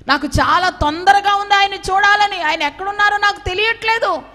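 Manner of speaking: high, loud, urgent plea; anxious preaching cry. Acted. Pastor voicing Mary's anxious search, as a loud, high plea.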